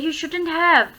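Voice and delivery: "You shouldn't have" with "have" falling; voice dying away. Shown as a demonstration. Teacher repeating the exclamation example, falling on "have". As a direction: let the voice drop off on "have". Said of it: "मेरी आवाज़ जो है वो धीमी हो रही है".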